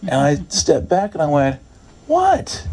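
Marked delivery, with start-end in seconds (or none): 2.1-2.7 high incredulous "what?"; taken aback. Retold or imitated. Believer balking at the Lord's okay, taken aback. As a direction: balk with a sharp rise in pitch.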